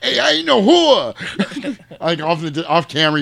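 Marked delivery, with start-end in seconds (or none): 0.0-1.8 high, slow mock protest; high, drawn-out offended denial; indignant retort. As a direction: drag it out offended. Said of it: "she's like".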